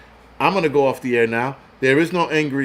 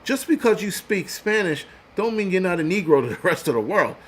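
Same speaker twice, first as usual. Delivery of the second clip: higher, cocky put-down; retold scolding; 5 semitones higher than usual. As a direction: tell him off like you told him then. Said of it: "And I'm like".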